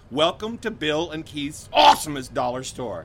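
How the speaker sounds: loud announcer hype; monster truck ad. Acted. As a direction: welcome them like a monster truck rally ad. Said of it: "you have to say it like that".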